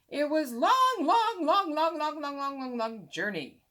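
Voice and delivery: high, loud hammed-up storyteller; mock storyteller. Boy mocking a long journey, high hammed-up narration. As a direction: stretch each long like a tired narrator.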